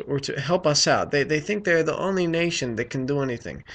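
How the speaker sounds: lightly put-on Ugandan accent, halting; bad Ugandan accent. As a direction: imitate a Ugandan woman in a shaky attempt at the accent. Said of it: "excuse me for the shitty accent".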